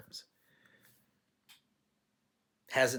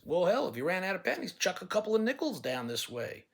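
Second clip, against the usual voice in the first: mock taunt; 5 semitones higher than usual. Taunting classmates in story.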